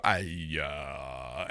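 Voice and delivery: low, drawn-out stammer; acted blank, dragging low and soft; stumped hesitation. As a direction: sink into a long, clueless "uh". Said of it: "you're gonna go".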